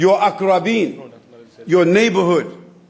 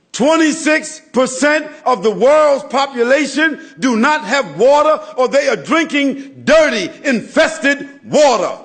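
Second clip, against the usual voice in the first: higher, louder sermon build; preaching at full force; 6 semitones higher, 3 dB louder than usual. Acted. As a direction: rouse the congregation with the numbers.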